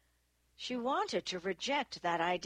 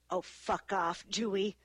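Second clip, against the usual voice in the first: irritated brush-off, not raised; snapped. A narrator's reading. Annie irritated that Dewey dredges up old history, snapped. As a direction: snap it with mild irritation. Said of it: "Annie snapped".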